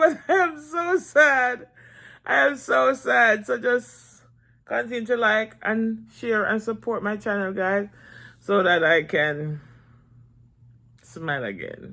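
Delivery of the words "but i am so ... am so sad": laughing while talking, pitched up and slow. YouTuber asking viewers to keep supporting the channel, laughing while talking. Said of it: "I'm laughing".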